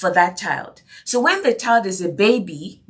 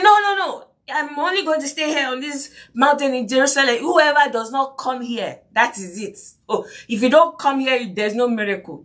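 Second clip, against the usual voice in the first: refusing preacher; 4 semitones higher than usual. Retold or imitated. Imagined Jesus refusing to visit people, mock-haughty and high. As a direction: play a lofty healer who won't travel. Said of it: "He just said".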